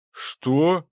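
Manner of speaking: high, startled question; astonished, hopeful blurt; wild hope. A narrator's reading. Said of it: "с безумной надеждой спросил Цепляев".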